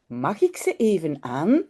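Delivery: understated pleading whine, rising at the end; mild whine. Acted. Jip begs to try on the slippers, mildly whining. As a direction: wheedle lightly, as a story child. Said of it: "zeurt hij".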